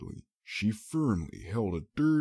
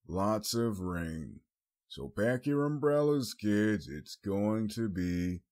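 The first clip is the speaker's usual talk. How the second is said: mock weatherman droning along, in places slow; bored forecaster reading lines, dragging the ending; mock dull tone; 2 semitones higher, slower than usual. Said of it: "he started to speak in a dull tone".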